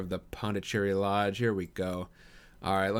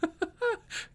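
high, light chuckle; character laugh. A narrator's reading. Holmes amused at the boxer's praise, high laugh. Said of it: "said Holmes, laughing".

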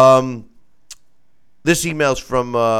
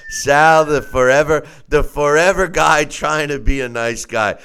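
loud, high hype-man intro; mock hype intro; 7 semitones higher, 7 dB louder than usual. Host hyping up his co-host, loud and high. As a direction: build Sal up like a ring announcer.

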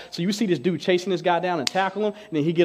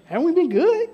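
high pleading; 13 semitones higher than usual. Retold or imitated.

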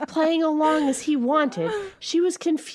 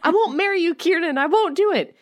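stunned gasp; 6 semitones higher, faster than usual. A narrator's reading. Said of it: "she gasped, stunned".

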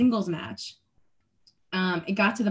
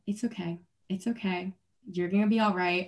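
retold soothing self-talk, softly spoken; self-reassurance; 4 dB quieter than usual. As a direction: quietly talk yourself down from panic. Soothing herself during panicked match.

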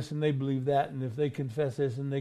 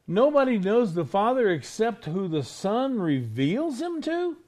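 higher-pitched, disbelieving questions; incredulous listener; 5 semitones higher than usual. Acted. Baffled listener questioning what Jesus said, incredulous.

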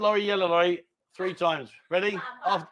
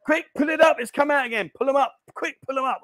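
urgent; 6 semitones higher than usual. Real, not acted. Urgent mishap.

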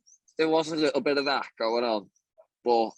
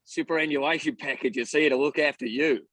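put-on Steve Irwin accent; 2 semitones higher than usual. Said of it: "Steve Irwin in the accent".

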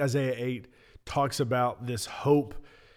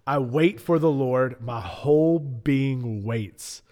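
dramatic reading. Acted. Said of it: "You were reading that so dramatically".

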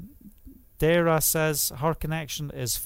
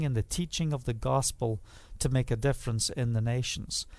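quiet pledge; 3 dB quieter than usual. Retold or imitated. Pledge to God in story.

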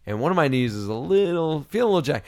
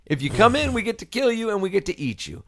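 mild hollering; 4 semitones higher than usual. Retold or imitated. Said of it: "he starts hollering out".

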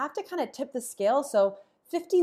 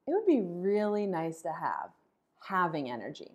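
having energy; 3 semitones lower than usual. Shown as a demonstration. Teacher contrasting two energies, relaxed satisfied. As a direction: let "It would be really nice to have" sound satisfied. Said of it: "can you feel the difference between".

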